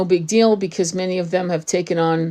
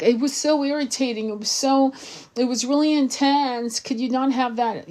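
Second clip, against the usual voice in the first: high, petulant complaint; mocking whiny girls; 6 semitones higher than usual. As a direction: mimic the girls' whining, pitched up.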